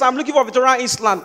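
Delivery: "Island" said as "iss-land", with the S sounded. Retold or imitated. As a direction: pronounce the silent S in "Island". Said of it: "there is S in the spelling".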